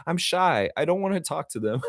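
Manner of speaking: shy voice. Retold or imitated. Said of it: "she's like".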